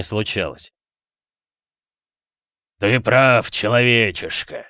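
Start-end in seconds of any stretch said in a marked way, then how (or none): 2.8-4.7 loud, slow demonic verdict; weighty and contemptuous; grave demon voice. Acted. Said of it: "сказал он наконец". (весомый голос демона)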